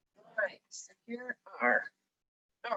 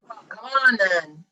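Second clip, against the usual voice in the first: loud, slow challenge; big goat's cry; 8 dB louder, slower than usual. A narrator's reading. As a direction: dare the troll to come on. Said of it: "cried the big billy goat".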